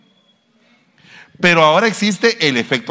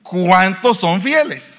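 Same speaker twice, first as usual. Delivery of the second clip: slow call; 5 semitones higher, much slower than usual. Real, not acted. Preacher asking the congregation, slow and emphatic. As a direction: drag it out for answers. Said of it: "voy a volver a preguntar".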